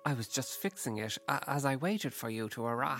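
lightly voiced English Venusian; a hint of bumbling English politician; Boris Johnson. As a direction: play the alien with an English accent. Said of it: "this Venusian appears to be Boris Johnson".

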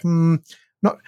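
high, puzzled company rep; mock confused rep. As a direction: play dumb like the rep. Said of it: "And they're like".

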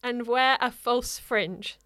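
slow, drawn-out reading, trailing into a whisper; hushed, slow reading of the confession; slow confessional reading. Acted. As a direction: confess it slowly, dropping to a whisper at the end. S1 reads the letter's confession.

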